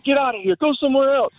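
high-pitched, little added volume; mild mock scream. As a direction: imitate kids screaming at another boat. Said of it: "just screaming at 'em".

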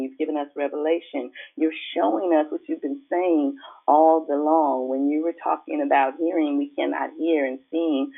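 earnest spoken prayer. Acted. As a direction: pray it with devotion. Prays aloud to God.

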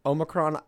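"Omicron" with a long OH at the start. Shown as a demonstration. Telling co-host the version heard, "Omicron" with long O. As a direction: say "Omicron" as OH-muh-cron. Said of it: "I've heard both".

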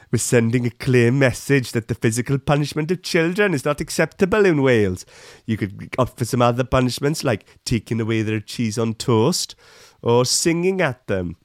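lilting put-on Welsh accent; mock Welsh accent. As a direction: read it as a caricatured Welsh politician, Welsh accent. Mimics Welsh minister's statement.

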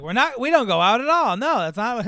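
insistent acted denial; emphatic denial.

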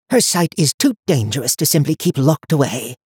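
put-on high, cold voice of an old seer; stern old woman. A narrator's reading. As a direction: speak down to him like a haughty elder. High Watcher voiced in story.

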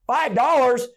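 stunned disbelief at the amount; incredulous. Retold or imitated. Me stunned my buddy only paid five, incredulous.

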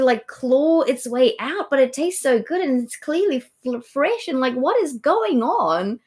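mock bewildered crying. Co-host voicing Thyestes at his awful meal, mock bewilderment. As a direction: play a baffled diner, half-wailing in jest. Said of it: "he's going".

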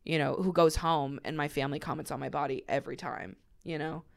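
holding back tears while talking; crying. Real, not acted. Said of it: "Sorry, I'm crying on your podcast".

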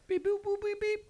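high, beeping robot noises. Acted. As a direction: beep like a tiny robot. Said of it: "little gay robot".

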